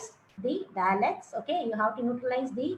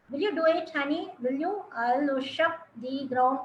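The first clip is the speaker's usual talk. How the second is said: AAVE dialect; 2 semitones higher than usual. Shown as a demonstration. Lecturer showing students a hard dialect line, AAVE. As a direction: read the line in African American vernacular, "worship" slurred. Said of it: "This is again A A V E".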